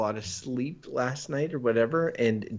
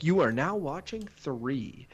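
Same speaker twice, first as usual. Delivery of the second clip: mock announcer; slower than usual. Imitating a TV channel announcer.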